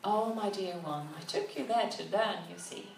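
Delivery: a touch of tender patience; gentle. Acted. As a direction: soothe her gently. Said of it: "he replied gently".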